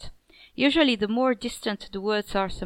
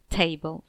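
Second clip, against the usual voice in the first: "table" with weighted ta- and light -ble; stress on first syllable; 4 semitones lower than usual. Shown as a demonstration. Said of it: "a stressed syllable followed by an unstressed syllable".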